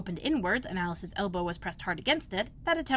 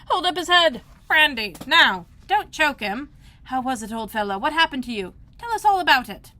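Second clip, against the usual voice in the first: high, loud overlapping cries; excited shouting; 5 semitones higher, 8 dB louder than usual. A narrator's reading. Crowd fussing loudly over Bill. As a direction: fuss over the fallen lizard. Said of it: "another confusion of voices".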